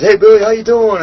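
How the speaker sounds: high, loud breezy hello; fake-friendly greeting. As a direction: ham up his casual "how you doing". Imitating the guy's breezy greeting.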